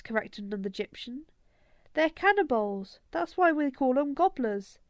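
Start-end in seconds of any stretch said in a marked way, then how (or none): 1.9-4.8 a lightly voiced kid, a bit higher and louder; insistent boy. Another Egyptian boy correcting the first, insistent kid voice. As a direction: correct him with a know-it-all edge.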